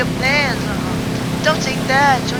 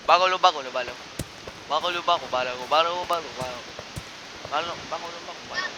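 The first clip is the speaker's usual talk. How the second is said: much lower, mock monster chant; silly low creature voice; 11 semitones lower, 9 dB quieter, much faster than usual. Gamer goofing around over a game in a low monster voice. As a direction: rumble the nonsense syllables like a goofy beast.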